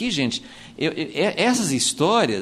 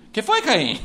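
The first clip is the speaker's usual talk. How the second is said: lightly voiced God, a laugh in it; a caring father checking on a sulking son, lightly played; mock tender God asking what's wrong; God asking gently; 5 semitones higher than usual. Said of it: "Deus fala com ele".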